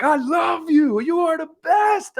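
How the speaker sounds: loud, high, slow English bartender greeting, laughing. Retold or imitated. Bartender Steve welcoming his American regular, loud high English voice. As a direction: boom it like a delighted English barman. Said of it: "the speaker is trying to do an English voice".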